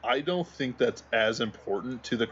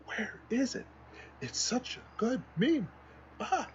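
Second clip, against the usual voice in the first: high, squeaky laugh through the words; 13 semitones higher, 6 dB quieter than usual. Real, not acted. Searching for a favorite meme, laughing. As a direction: giggle it out. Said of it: "laughing while searching".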